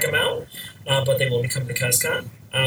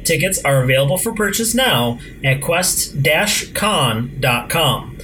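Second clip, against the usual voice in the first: loud, bright podcast intro read; radio announcer; 4 dB louder than usual. Acted.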